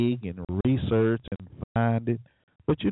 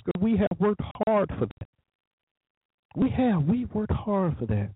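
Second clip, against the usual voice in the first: higher-pitched mock protest; put-on defensive insistence, pitched up; sarcastic; 6 semitones higher than usual. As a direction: play the indignant homeowner, sarcastically. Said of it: "I'm being sarcastic".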